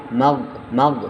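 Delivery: মাগ cut short without an added vowel; wrong and right. Shown as a demonstration. Teacher contrasting মাগ with the wrong মাগে. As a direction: say মাগ ending cleanly on the g. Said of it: "মাগে হবে না".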